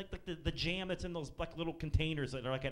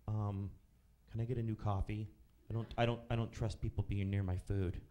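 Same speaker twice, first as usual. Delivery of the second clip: lower, hesitant mock voice; paranoid customer; 5 semitones lower than usual. Comic imitating the woman refusing her coffee, lower. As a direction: say it lower, wary and halting.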